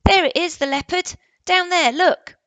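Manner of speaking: high, loud excited pointing; excited boy. Acted. Barney shows his friend the leopard below, high and loud. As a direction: voice Barney thrilled at the sight.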